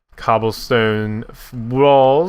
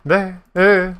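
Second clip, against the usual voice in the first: high, squeaky replay of a cracked word; mock voice crack; 9 semitones higher, 3 dB louder than usual. Streamer making fun of his slip, mock voice crack. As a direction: mimic your own voice cracking upward. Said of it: "voice crack, lovely".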